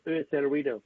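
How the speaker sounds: app name said the English way, French speaker putting on English; English accent. Shown as a demonstration. Streamer names the new app for viewers, English accent. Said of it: "avec l'accent anglais".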